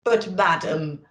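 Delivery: blustering Santa. Acted. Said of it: "Santa blustered".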